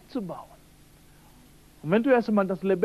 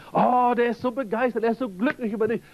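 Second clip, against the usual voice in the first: begeisterter Zuspruch; 3 semitones higher than usual. Acted. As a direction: gush a little, pitched higher. Preacher voices excited self-encouragement. (begeistert zugesprochen)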